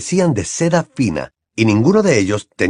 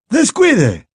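put-on higher, slow, courtly old wizard; a raised, courteous headmaster; Dumbledore voiced; 12 semitones higher, 4 dB louder than usual. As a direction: greet a grand guest, slow and raised.

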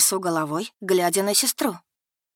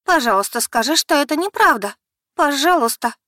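high, louder, pleading voice; дрожащим голосом, умоляя; trembling plea; 8 semitones higher, 6 dB louder than usual. Acted. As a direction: beg her to deny it. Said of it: "Дрожащим голосом стала умолять".

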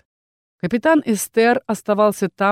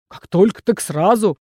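wheezed retort. Acted. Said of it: "прохрипел орк".

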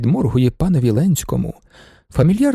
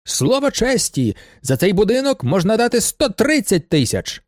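calling out full voice; 6 semitones higher than usual. A narrator's reading. Bidder in blue glasses boasts to the auction room, calling out high. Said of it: "гукає на повен голос".

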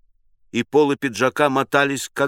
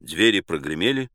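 usual speaking voice

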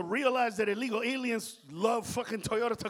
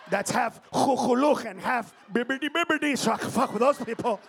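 mock shout; 3 semitones higher, 7 dB louder than usual. Comic shouted made-up words.

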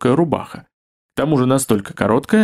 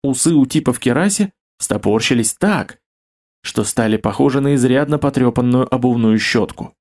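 ordinary delivery, nothing marked

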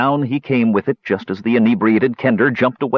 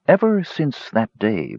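gravelly sly hobgoblin. Acted. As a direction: cut in slowly and darkly. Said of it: "broke in the stranger".

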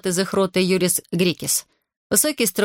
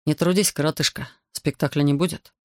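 calm reply; 3 semitones lower than usual. Acted. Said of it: "Спокойно ответил".

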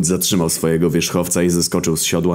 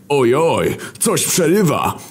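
much higher mock-alarmed cry; faked alarm shout; 9 semitones higher, slower than usual. War faking a dropped call, mock-alarmed shout. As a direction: fake a bad connection. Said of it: "krzyknął nagle Wojna".

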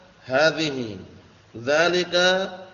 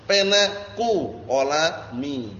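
slow vocabulary drill; much slower than usual. Shown as a demonstration. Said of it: "Paham ya?".

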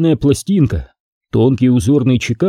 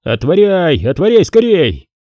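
higher panicked yell, rising on the second отворяй; breaking shout; 5 semitones higher than usual. Acted. Frightened boyar shouting to the guards below, voice cracking. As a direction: shout down in a fluster to open up. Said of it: "Срывающимся голосом закричал".

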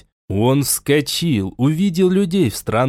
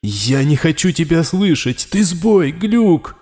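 angry outburst; 5 semitones higher than usual. Acted. Raul shouts at the glitch in his implant, angry. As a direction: lash out at the glitch.

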